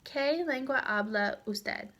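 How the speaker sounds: "¿Qué lengua habla usted?" with the pitch falling at the end; dropping question intonation. Shown as a demonstration. Teacher modelling an information question, intonation dropping on "usted". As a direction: let "usted" drop at the close of the question. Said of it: "intonation drops at the end".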